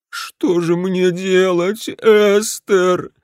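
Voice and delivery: slow, high whining plea; whimpering. Acted. Husband whimpers to his wife for help. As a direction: whimper it like a child. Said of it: "захныкал Гринберг".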